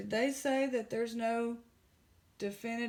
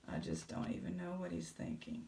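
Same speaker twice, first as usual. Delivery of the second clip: much lower, softer mock voice; deep caption voice for Billy Bob; 14 semitones lower, 8 dB quieter, faster than usual. Vlogger voices Billy Bob's caption in a deep low voice. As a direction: voice the thoughts in a deep low rumble. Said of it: "if you could write a caption for him".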